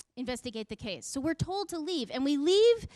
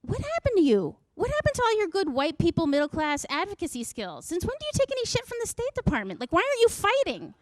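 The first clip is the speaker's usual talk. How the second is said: much higher and louder, fast and indignant; scolding inner voice; 6 semitones higher, 4 dB louder, faster than usual. Retold or imitated. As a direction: scold yourself for not fighting back. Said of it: "The third one says".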